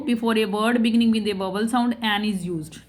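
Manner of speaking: slow, careful textbook reading; reading the rule aloud. Shown as a demonstration. Teacher to class, reading the grammar rule slowly. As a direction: read each word of the rule out slowly.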